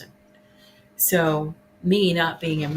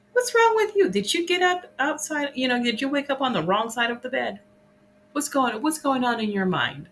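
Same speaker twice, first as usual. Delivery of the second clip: demanding questions; 6 semitones higher than usual. Retold or imitated. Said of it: "the way she answers".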